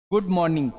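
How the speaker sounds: Good मॉर्निंग with no r in मॉर्निंग, mɔnɪ̃ŋɡ; silent r. Shown as a demonstration. Teacher demonstrates the silent r to students. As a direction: say मॉर्निंग without its r. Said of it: "आप आर को".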